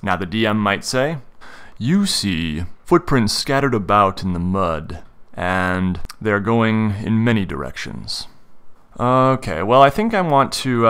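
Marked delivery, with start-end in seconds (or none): 1.8-8.3 slow, deliberate scene description; game master narration. Acted. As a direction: lay out the scene slowly.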